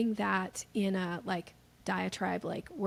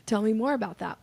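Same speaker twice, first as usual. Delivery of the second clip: eager; 6 dB louder, faster than usual. Retold or imitated. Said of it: "people go like".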